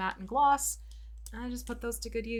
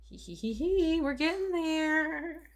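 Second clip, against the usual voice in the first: high giggly mad cackle; gibbering madness; 8 semitones higher, 3 dB louder, slower than usual. Acted. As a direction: giggle like a madman, slowly. Sinister eyes, giggles evilly.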